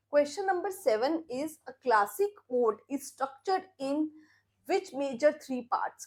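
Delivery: reading each option out slowly; slow quiz reading. Acted. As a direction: read the quiz out clearly for the class, unhurried. Reads quiz question. (धीमे-धीमे quiz पढ़ना)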